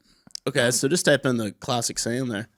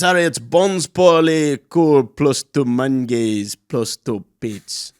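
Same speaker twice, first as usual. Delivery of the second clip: mock French; slower than usual. Shown as a demonstration. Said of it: "See if that sounds anything".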